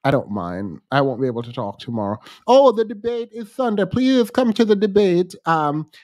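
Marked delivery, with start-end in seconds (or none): 2.5-5.4 raised voice. Real, not acted. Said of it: "I'm loud right now".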